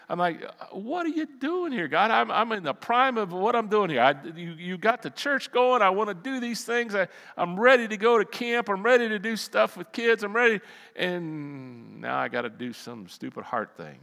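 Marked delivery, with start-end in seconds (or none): 0.7-10.6 higher-pitched, indignant protest; retold complaint, mildly heated; angry at God. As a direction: argue with God in rising frustration. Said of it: "Then I got angry at God".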